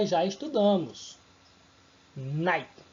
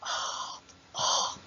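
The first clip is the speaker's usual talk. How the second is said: breathy h sound demo; 4 dB quieter than usual. Shown as a demonstration. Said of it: "ele faz aquele som de ah".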